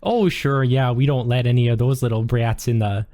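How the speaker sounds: lightly voiced sweet librarian, reassuring; a hint of the helpful front-desk lady. Librarian assures visitor no brats get in, lightly sweet voice.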